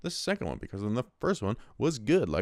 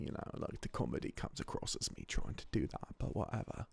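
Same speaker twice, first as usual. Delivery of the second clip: muttered aside; 6 semitones lower, 13 dB quieter than usual. Real, not acted. Self-deprecating aside.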